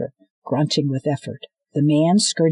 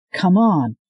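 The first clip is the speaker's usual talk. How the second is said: urgent man hauling her away; 4 semitones higher, 5 dB louder than usual. Acted. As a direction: hurry her along. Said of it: "said the man from behind".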